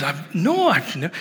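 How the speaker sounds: hint of a small girl's voice; innocent little girl. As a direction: mimic a guileless six-year-old. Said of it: "she's so innocent".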